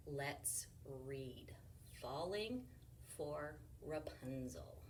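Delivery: soft unvoiced whisper. Real, not acted. Teacher whispering the book title to children. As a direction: hush it like a secret. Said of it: "whispered title".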